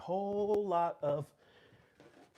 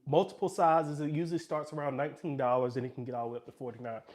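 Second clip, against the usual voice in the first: breathless after the stairs; winded, catching breath. Real, not acted. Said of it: "Sorry, I'm out of breath".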